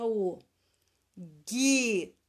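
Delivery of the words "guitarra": "Guitarra" in separate syllables, GUI with a hard G and no U; silent U. Shown as a demonstration. Teacher showing pupils the U is unused, syllable by syllable. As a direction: say "Guitarra" as ghi, ta, rra with gaps. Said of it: "a gente não usa".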